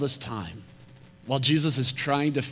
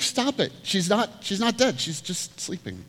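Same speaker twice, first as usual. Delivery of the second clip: high mock command; 7 semitones higher than usual. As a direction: lift it, then ease off. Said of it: "Jesus is like".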